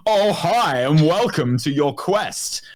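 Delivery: slow, cheerful quest giver voice; game NPC quest giver. Retold or imitated. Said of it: "the Garrett N P C".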